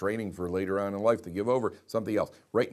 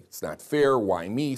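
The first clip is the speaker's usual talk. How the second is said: mock complaint; 2 semitones higher, 4 dB louder, slower than usual. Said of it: "they may blurt out something".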